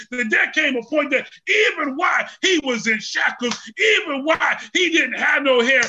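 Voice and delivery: fiery pulpit preaching; preaching at full force. Acted. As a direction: build the sermon to a shout.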